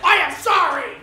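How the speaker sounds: loud, high, overdone gasping apology for a slip; mock horrified apology. Swearing on morning TV, apologizes in a loud mock panic. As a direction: ham up the shocked oh and the sorry.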